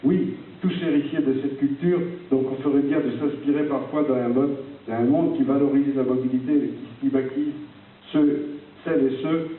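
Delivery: reading a letter aloud; formal speech read from a page. Acted. Reads out his letter. (lecture solennelle d'une lettre)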